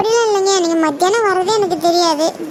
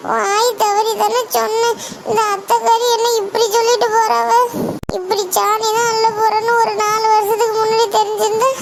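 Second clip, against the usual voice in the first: tearful lament. Acted. Scolded bride laments alone.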